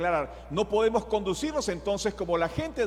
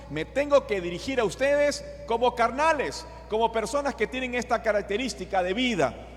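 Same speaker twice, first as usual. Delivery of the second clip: exasperated plea, pitched up; almost angry; 5 semitones higher than usual. Acted. Paul tells carnal believers how he must address them, almost angry. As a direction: imitate Paul's near-angry rebuke, firm and higher. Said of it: "ya casi enojado les dice".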